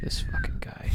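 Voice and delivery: harsh whisper about the snoring elf. Acted. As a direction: hiss it under your breath. Santa whispers in workshop.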